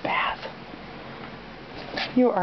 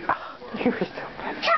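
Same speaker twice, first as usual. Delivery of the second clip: whisper; 6 dB quieter, faster than usual. Real, not acted.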